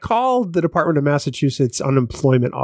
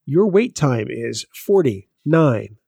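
phone menu voice; slower than usual. Retold or imitated. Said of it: "And so they say".

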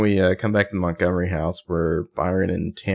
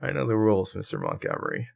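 Holbrook voice; 7 dB quieter than usual. Acted. Detective answers Mr. Montgomery in a lightly done Holbrook voice. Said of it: "I keep wanting to slip into a Holbrook voice".

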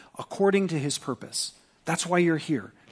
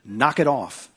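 firm fatherly scold, a bit louder; 4 dB louder than usual. Shown as a demonstration. Pastor scolding his congregation like a father, louder. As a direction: tell them off like a dad, louder. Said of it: "I can be louder if I need to".

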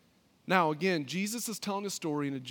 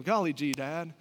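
put-on wholesome 1950s kid; 3 semitones higher than usual. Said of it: "that's an Andy Griffith".

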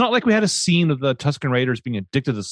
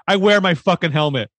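higher-pitched indignant griping, easing off at the end; mock outrage; 4 semitones higher than usual. Podcaster acts out helmet owner's tantrum, mock outrage. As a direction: play him fed up and exasperated. Acts out Boba's wished-for angry outburst.

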